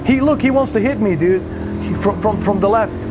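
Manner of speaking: high, urgent warning; alarmed exclamation. Real, not acted. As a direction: call out the attacker in alarm. Opponent attacks in race.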